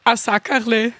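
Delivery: learner's careful Tyrolean Sackerle with audible r; Tirolerisch nachgesprochen. Shown as a demonstration. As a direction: echo Sackerle in attempted Tyrolean. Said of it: "Machen wir Tirolerisch". (Sackerle, vorsichtig Tirolerisch nachgeahmt)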